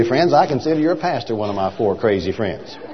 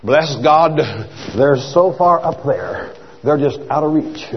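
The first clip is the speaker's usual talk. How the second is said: mock pious churchgoer. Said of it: "the church world has read those verses and think".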